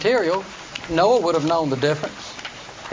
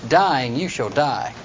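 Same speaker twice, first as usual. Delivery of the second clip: slow Hebrew-style phrasing; 5 semitones lower, slower than usual. Shown as a demonstration. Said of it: "What they say is".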